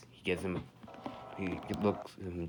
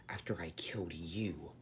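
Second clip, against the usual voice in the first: threatening tone; 2 semitones lower, 8 dB quieter than usual. Retold or imitated. Fan narrator whispering the villain's threat quietly. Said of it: "says this in a threatening tone".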